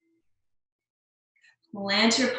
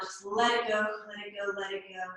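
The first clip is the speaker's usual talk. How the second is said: soothing fade; 2 semitones lower, 6 dB quieter than usual. Shown as a demonstration. Teacher easing class into release.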